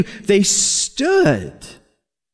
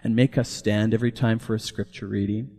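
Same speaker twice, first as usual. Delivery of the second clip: put-on British accent; 5 semitones lower, 7 dB quieter than usual. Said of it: "his British accent".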